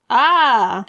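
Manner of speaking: loud "ah" of excitement; short loud excited yell; excited scream. Real, not acted. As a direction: cry out, overwhelmed. Reaction to slogan request.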